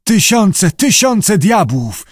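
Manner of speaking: high, terrified wail; panicked diver wailing to his master; moaning in terror. A narrator's reading. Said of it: "zajęczał Syngales".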